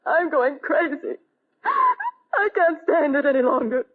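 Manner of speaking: tearful, slow and breaking, near sobs; a distraught wife crying that she can't stand it. Acted. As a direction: plead through the tears, barely holding on. Selma in distress, near tears.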